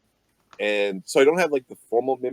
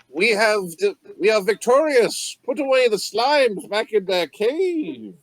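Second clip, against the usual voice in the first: weighty chief proclaiming, a bit higher; lightly voiced tribal chieftain; 6 semitones higher, 5 dB louder than usual. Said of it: "mimic Chieftain Lickaboot's voice".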